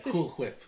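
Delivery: Cool Whip with an airy hwip; hwip pronunciation. Shown as a demonstration. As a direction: breathe out on the wh of Whip. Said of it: "Who says it like that?".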